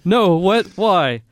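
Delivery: high, loud panicked protest; imitated frightened outburst; retold panic. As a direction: cry out like a kid in disbelief. Retelling panicked reaction to mom.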